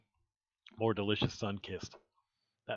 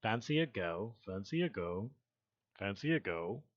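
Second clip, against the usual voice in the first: mock posh British greeting; lightly put-on posh British accent. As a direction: try out a posh British "governor". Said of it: "Posh like".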